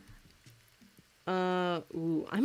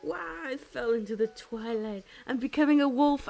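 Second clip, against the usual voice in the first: higher, hammed-up dramatic cry; play-pretend transformation; 6 semitones higher, 3 dB louder than usual. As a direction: act out turning into a wolf, building louder. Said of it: "play pretend to be like".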